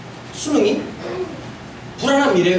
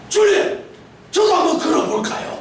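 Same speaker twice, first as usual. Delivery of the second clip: eager Peter; 3 semitones higher than usual. Retold or imitated. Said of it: "갑자기".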